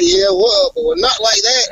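high mock-scolding trainer voice; imitating the trainer. Trainer correcting the backflip, high mock scold. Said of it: "He was like".

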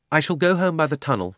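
chilly, stand-offish reply; rather cold. A narrator's reading. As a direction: announce it coldly, keeping your distance. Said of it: "rather coldly".

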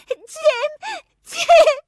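high, loud call into the night. Acted. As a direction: call his name out loud into the dark. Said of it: "صدا زدم". (فریاد زدن اسم جم)

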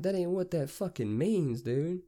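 high-pitched mocking repeat; retold scoffing comeback; incredulous echo. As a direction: throw his words back in disbelief. Acts out his incredulous comeback.

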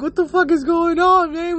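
high-pitched mock disbelief; squawked, put-on complaint; exasperated outburst. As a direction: act out baffled exasperation, voice jumping way up. Mock complaint about phone-glued outing.

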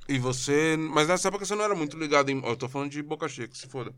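talking with food in mouth; eating while talking. Real, not acted. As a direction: speak through a mouthful. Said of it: "que eu vou comer".

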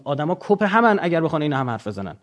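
ordinary talk, nothing marked

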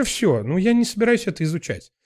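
ordinary talk

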